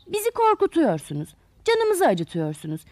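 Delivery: lightly acted scolding from storybook flowers. Flowers shooing the tools out of the garden, scolding. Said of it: "diye bağırıp azarlıyorlarmış".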